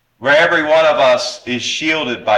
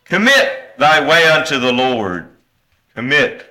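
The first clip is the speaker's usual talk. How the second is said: "Commit" set off firmly at the start; stress on Commit; 3 semitones higher, 3 dB louder than usual. Shown as a demonstration. Preacher highlights the word from verse five, "Commit" stressed. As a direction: punch "Commit", then say it alone. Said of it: "the word commit".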